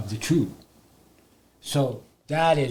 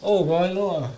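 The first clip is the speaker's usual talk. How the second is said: hammed-up worried psychologist; 5 semitones higher than usual. Psychologist fussing over the angry man, higher mock worry. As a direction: play the fussing psychologist, pitched up. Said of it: "They have to say".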